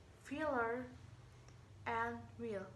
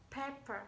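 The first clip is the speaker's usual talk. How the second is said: "Paper" with the first syllable stressed, falling after; 4 dB quieter than usual. Shown as a demonstration. Teacher repeating a noun example, "Paper" stressed on its first syllable. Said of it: "stress is on the first syllable".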